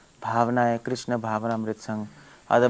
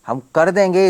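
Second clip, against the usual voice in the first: higher and louder, defiant; defiant insistence; 6 semitones higher, 8 dB louder than usual. Retold or imitated. Mind refusing to ask God, defiant and loud. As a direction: insist loudly like a stubborn mind.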